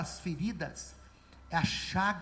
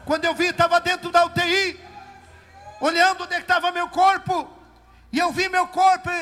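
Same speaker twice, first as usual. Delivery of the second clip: loud, higher, fervent testimony; preaching at full force; 5 semitones higher, 12 dB louder than usual. Acted. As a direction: proclaim it to the church.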